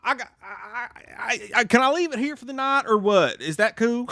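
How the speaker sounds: put-on high, laughing redneck accent; mild Southern redneck accent. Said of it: "kicks into me".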